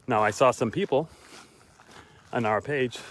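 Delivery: winded from walking; breathless while talking on a walk; out of breath. Real, not acted. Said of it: "I know I'm so winded".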